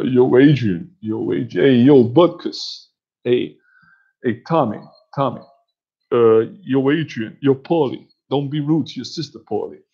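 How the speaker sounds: imitated boxer calling out to loved ones; Rocky. Boxer calling to Adrian, Tommy and Paulie, imitated. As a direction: do a rough take on the movie boxer. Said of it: "do Rocky".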